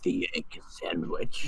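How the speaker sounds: low, soft, slow hush; mock reverent. Friend revering the egg sandwich, mock reverence. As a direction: say it like a holy relic.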